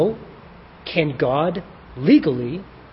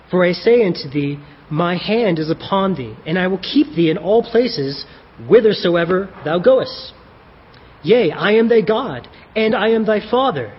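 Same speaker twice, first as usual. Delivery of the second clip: King James reading. Acted. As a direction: read the letter as God speaking in old King James English. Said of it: "I'm gonna read it like that just 'cause it makes it sound cool".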